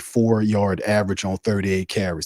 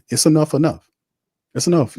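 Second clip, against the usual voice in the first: fed up; 7 semitones higher, 5 dB louder than usual. Real, not acted. Fed-up appeal to fans.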